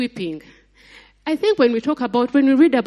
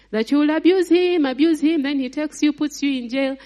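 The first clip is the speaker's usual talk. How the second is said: God's voice, higher and indignant; fed-up God; 5 semitones higher than usual. Acted. Preacher voicing God fed up with the people, higher indignant. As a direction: play God at the end of his patience.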